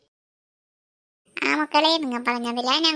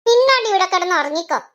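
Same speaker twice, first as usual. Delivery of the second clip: louder, sharp command; loud order; 2 semitones higher, 6 dB louder than usual. Acted. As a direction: tell her off and order her to sleep. Husband orders her to sleep. (ഉറക്കെ ആജ്ഞാപിക്കുന്നു)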